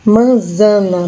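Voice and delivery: Manzana said slowly and clearly. Shown as a demonstration. Teacher modelling the Spanish word manzana for students. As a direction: spell out Manzana syllable by syllable. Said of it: "se diz manzana".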